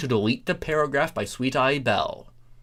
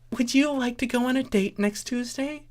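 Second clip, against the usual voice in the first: high scheming pony voice; 12 semitones higher than usual. Acted. Starlight asks Celestia out.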